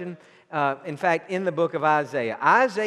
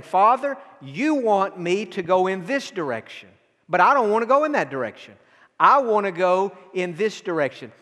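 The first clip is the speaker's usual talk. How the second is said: voicing Jesus pleading. Preacher voicing Jesus' complaint.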